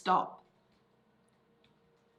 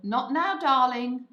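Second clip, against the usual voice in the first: raised, louder put-off with an endearment; lightly acted busy mum; parental brush-off; 4 semitones higher, 8 dB louder than usual. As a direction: lift it and push the child away. Quoting mum's put-off in read-back.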